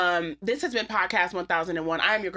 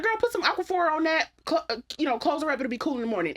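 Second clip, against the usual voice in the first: auntie's voice; 7 semitones higher, faster than usual. Retold or imitated. Auntie quizzing the mother about the soap, high knowing voice. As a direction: play the sharp auntie who knows.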